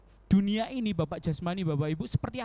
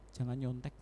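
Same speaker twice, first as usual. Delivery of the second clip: soft inner voice; 7 semitones lower, 7 dB quieter than usual. Retold or imitated. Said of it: "kayak ada yang bisikin".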